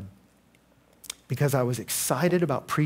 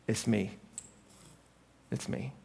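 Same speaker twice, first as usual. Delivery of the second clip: soft, fading hush, slow; gentle whisper; 2 semitones lower, 7 dB quieter, slower than usual. Retold or imitated. God quietly answering the injured boy, a soft hush. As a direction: let the words fall almost silent. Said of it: "God whispered".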